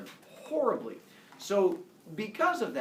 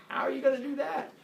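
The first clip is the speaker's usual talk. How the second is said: scoffing challenge; 9 semitones higher, faster than usual. Acted. Leto challenging Hera.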